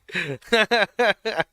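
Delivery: loud, high peal of laughter; big laugh. Real, not acted. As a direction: burst out laughing for real. Amused by the accent story.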